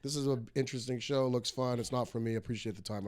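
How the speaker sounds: bow out courteously without any fuss; polite decline. Retold or imitated. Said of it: "But I wasn't like".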